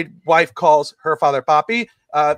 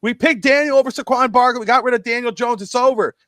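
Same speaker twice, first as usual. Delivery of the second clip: mock celebration; 6 semitones higher, 4 dB louder than usual. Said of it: "they go".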